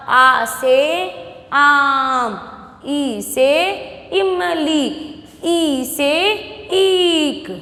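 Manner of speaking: slow, drawn-out letter-and-word chant; junior-class recitation. Shown as a demonstration. Teacher repeating the old small-class way, slow alphabet recitation. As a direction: lead the alphabet drill, stretching each key vowel. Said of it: "पहले आप ऐसे पढ़ रहे थे".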